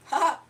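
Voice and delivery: mock newsroom laugh; fake laugh. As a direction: fake a chuckle like a TV presenter. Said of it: "They did a fake laugh".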